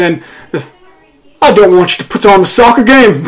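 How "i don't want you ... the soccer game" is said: a badly faked British accent, laughing through it; mock his London friend in a clumsy British accent; terrible British accent. Host imitating his London friend refusing the soccer game, in a terrible British accent. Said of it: "That was a terrible British accent".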